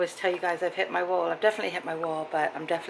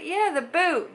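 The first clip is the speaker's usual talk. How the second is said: exasperated; 10 semitones higher, 4 dB louder, slower than usual. Retold or imitated. Exasperated high reply.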